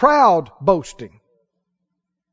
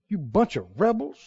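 understated scolding, much softer; soft mock scolding; 3 semitones lower, 9 dB quieter than usual. Preacher mocking Moses' insult, soft. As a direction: say it quietly, scornful. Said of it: "Drum roll, please".

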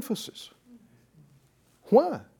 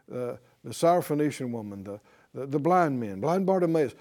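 low, softer, hurried run-through; offhand skimming recap; 3 semitones lower, 3 dB quieter, faster than usual. Acted. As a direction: skim through it as routine reading. Mimics skimming through the healing accounts.

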